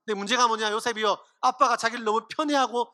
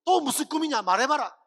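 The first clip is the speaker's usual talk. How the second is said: higher-pitched exasperated demand, settling back; acted-out impatient big brother; irritated older brothers; 4 semitones higher than usual. Brothers answer Joseph's next dream, irritated.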